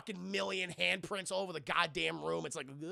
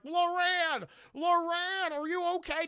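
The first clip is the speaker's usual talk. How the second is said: loud, high calling of the name; husband calling out for Loran; 12 semitones higher, 6 dB louder, slower than usual. Retold or imitated. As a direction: shout it through the walls. Ed calls for missing wife.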